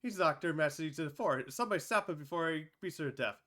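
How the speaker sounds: high, loud panicked crying out; frantic high loud shouting. Acted. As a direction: call for help in alarm. Bystanders panic at the attack.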